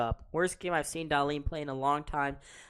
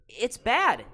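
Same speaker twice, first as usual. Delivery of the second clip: loud, high, exasperated outburst; mad; 8 semitones higher, 10 dB louder than usual. Real, not acted. Fan caster despairing over a winless week, mad. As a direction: rail in real frustration. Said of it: "I'm just mad".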